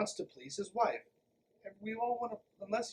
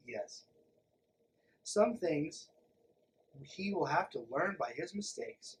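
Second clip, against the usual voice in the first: ordinary talk, nothing marked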